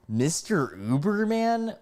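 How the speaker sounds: high, drawn-out incredulous echo; mock disbelief. Mock disbelief at being called that.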